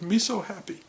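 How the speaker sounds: put-on high, sing-song little-kid voice; toddler voice. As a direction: chirp it like a happy two-year-old. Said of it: "He just walks around and goes".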